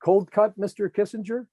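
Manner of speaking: playful waiter voice; cheeky offer. Retold or imitated. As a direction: hand it over with mock politeness. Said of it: "he said".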